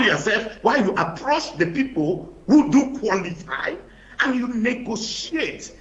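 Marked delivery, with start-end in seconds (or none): 4.2-5.8 "negotiate" said slowly and pressed; stress on negotiate. Real, not acted. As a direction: lean hard on "negotiate". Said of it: "I emphasize the word negotiate".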